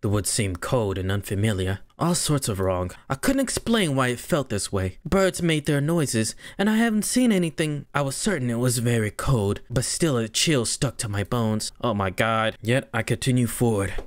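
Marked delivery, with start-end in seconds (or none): 0.0-11.7 subdued storytelling; story narration. A narrator's reading. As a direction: read it as an even audiobook narrator.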